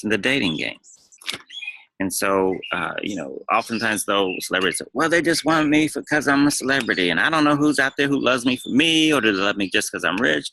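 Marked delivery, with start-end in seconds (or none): 4.9-10.5 higher-pitched mock fretting of a celebrity; put-on anxious griping, easing at the end; imitating paranoid worry. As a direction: voice a worried star's complaint, raised and insistent. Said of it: "they get all paranoid and worried".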